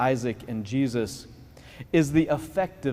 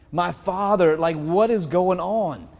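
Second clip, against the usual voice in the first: louder, higher urgent cry to father; urgent call; 3 semitones higher, 4 dB louder, slower than usual. Retold or imitated. Isaac cries out to Abraham, confused, louder and higher. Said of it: "Could you imagine what Abraham feels".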